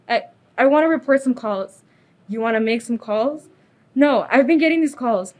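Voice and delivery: C=98; frightened and upset. Acted. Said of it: "Calm down, Jenny, calm down".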